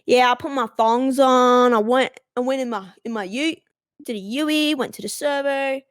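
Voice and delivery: laid-back Australian slang voice; broad Australian. Acted. Showing off slang to a confused classmate, broad Australian. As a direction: lay on the Aussie accent lightly exaggerated. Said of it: "throw in all the Australian slang words".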